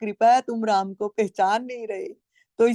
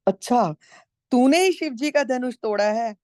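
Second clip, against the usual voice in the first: a touch of Parashuram's indignant higher challenge; mock accusing sage; 5 semitones higher than usual. Storyteller voicing the furious sage accusing Ram, lightly raised. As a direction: throw the question at him in mild outrage.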